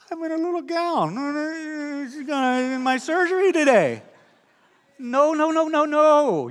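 mock panic. Embarrassed inner reaction.

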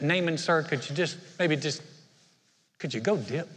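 soft, hesitant asking; a servant's soft, halting plea; timid request. Retold or imitated. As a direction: ask nervously, almost under breath. Aides timidly ask Naaman.

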